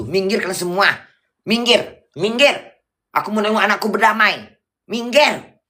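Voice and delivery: high, urgent cries to clear the way; acted yelling. Pushing through bystanders to see her children reconcile, mock yelling. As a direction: act out a high-pitched yell at a crowd. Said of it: "Teriak aku di situ".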